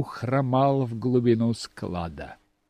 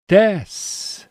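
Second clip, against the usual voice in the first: robot voice; 7 semitones higher, 5 dB louder than usual. Acted. Robot acknowledges the order.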